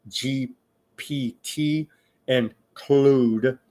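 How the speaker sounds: Claude said the French way, as "Clode"; French accent. Real, not acted. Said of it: "Sorry, not my French accent".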